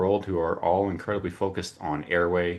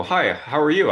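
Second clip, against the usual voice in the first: higher and louder, bright hello; cheery greeting; 9 semitones higher, 7 dB louder than usual. Retold or imitated. Host retelling his greeting to the mystery doctor, cheery. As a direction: greet a stranger with eager friendliness.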